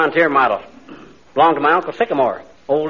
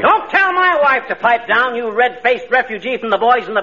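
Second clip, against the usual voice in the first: indignant retort; 6 semitones higher than usual. Acted. McGee angrily defends wife to cop.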